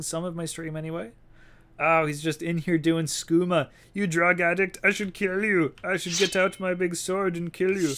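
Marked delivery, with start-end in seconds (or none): 3.9-7.9 mock threat. Threatening the skooma addict NPC.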